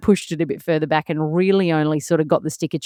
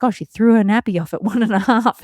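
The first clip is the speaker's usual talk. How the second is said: breezy mum; 4 semitones higher than usual. Retold or imitated. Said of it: "one mum who was like".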